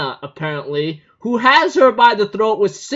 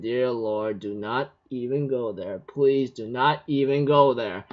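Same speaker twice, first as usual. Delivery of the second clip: exasperated inner plea; 7 semitones lower, 5 dB quieter than usual. Retold or imitated. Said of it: "I'm thinking in my mind".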